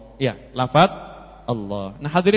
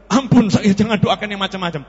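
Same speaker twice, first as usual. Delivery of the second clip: acted plea for mercy, a bit higher and louder; frightened plea; 4 semitones higher, 5 dB louder than usual. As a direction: beg off in mock fright. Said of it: "sama takut dia". (memohon ampun ketakutan)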